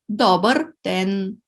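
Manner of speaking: "Добър ден" con el acento en la primera sílaba, "до" marcado; stress on first syllable. Shown as a demonstration. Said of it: "we put the stress on the first syllable".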